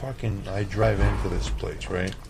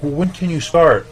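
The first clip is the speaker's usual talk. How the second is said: higher, louder eager question; energetic; 8 semitones higher, 7 dB louder than usual. Retold or imitated. Owner keen for the chef to start, energetic. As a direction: imitate her eagerness, pitch lifted. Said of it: "And she was super, like, hap-, like, you know, energetic".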